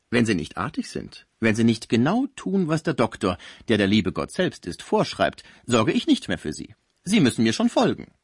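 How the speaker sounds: lively, mock-strict scolding carer; bossy nurse figure. Concierge warns her sick patient to obey, bossy scolding. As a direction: lay down the rules to a naughty patient.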